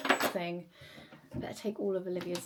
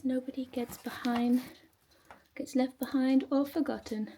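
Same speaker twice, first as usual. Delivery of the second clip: Stitch quote; 5 semitones higher than usual. Retold or imitated. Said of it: "I feel like Stitch".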